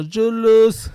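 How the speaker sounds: put-on high, loud German accent on Jealous. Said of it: "the little German accent".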